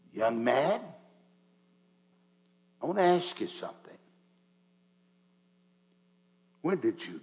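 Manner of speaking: put-on man speaking with an Australian accent. Quoting a speaker who walked up and addressed him directly: Australian accent. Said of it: "He had that Australian accent".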